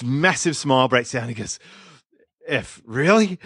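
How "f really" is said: surprised. Retold or imitated. Clay reacts in retold story.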